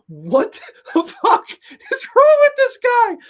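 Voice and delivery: high, loud, incredulous outburst; exasperated disbelief. Retold or imitated. Viewer baffled by a crazy movie character, high exasperated yell. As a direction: drag out the first words, then screech the rest.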